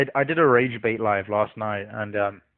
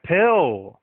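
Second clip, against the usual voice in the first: higher, louder retold call; mock calling out; 6 semitones higher, 6 dB louder than usual. Streamer cutting off an agitated guest, calling out. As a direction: call the name out to cut someone off.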